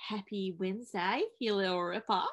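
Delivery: a playful Aussie twang on Happy Wednesday; tossed-off Australian accent, just for a laugh; mock Australian accent. Shown as a demonstration. Host greets listeners in a jokey Australian accent. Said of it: "let's do Australian".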